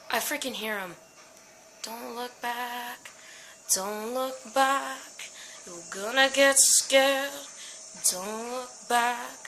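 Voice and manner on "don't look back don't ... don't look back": slow, hushed self-coaching; slow self-soothing. Real, not acted. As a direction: coax yourself past the fear. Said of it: "self-coaching chant, slow".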